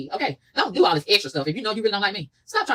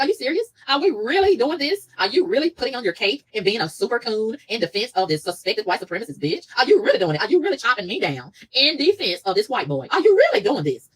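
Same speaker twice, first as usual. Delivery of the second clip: indignant disbelief; 3 semitones higher than usual. Retold or imitated. Acting out her indignant inner reaction.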